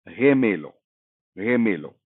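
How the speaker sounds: slightly guttural "रे", breathed from the throat; guttural Spanish G. Shown as a demonstration. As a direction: make "रे" a throat sound, without the tongue. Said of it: "अब ये रे थोड़ा सा ग्लिटरल है".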